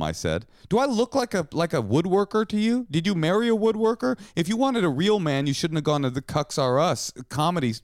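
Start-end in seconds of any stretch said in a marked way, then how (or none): 0.7-6.8 high, exasperated rhetorical questions; real comic indignation, pitched way up; indignant protest. Real, not acted. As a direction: plead your case in a raised, incredulous pitch.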